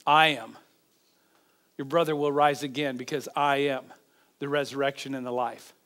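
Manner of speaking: low, measured, softened declaration; calm assurance. Acted. Preacher voices Jesus answering grieving Martha, calm assurance.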